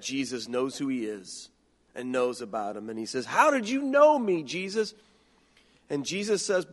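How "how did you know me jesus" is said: higher, astonished; amazed question. Acted. Nathanael amazed that Jesus knows him, astonished. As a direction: ask in wonder.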